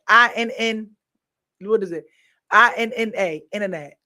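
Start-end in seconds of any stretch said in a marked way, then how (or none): 2.5-3.4 letters I N N A read out clearly; spelled out innanet. Shown as a demonstration. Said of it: "That's how we spell it".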